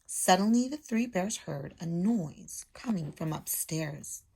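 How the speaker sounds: storybook read-aloud voice; lively picture-book reading; reading to children. Acted. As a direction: read it like a teacher to her class. Teacher reads story aloud.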